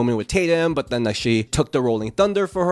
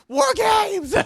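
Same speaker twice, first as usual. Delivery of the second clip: put-on Rhea Ripley's accent. Co-host mocks Rhea Ripley yelling War Games, shouted in her accent. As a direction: belt it out in her accent like a wrestler's entrance. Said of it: "but she's like".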